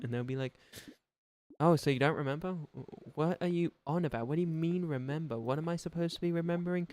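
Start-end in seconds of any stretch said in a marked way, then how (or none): 1.6-6.9 higher, puzzled questions; mock confusion over what to remember; confused self voice. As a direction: act baffled at the nonsense. Acted confused dialogue with others.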